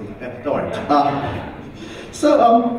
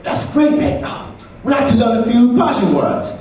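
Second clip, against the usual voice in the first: white friend voice; 5 semitones higher than usual. Retold or imitated. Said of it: "I'm gonna do this white voice as a black voice".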